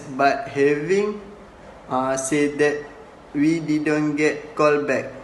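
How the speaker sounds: quoting the line with but stressed. Shown as a demonstration. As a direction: lean on but, then go on. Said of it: "The speaker stress on word but".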